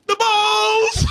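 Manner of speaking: high mock yell from the crowd; a stranger in the theater yells. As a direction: blurt it out like a guy in the back row. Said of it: "one guy behind me actually yelled out".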